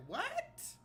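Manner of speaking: high, squeaking disbelief; shocked what. Real, not acted. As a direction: jump up in pitch, stunned. Shocked reaction to the clip.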